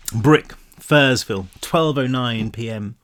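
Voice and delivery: slow, spaced-out reading; slow and deliberate. Shown as a demonstration. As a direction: read each word slowly, like a chapter heading. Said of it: "Did I just say that?".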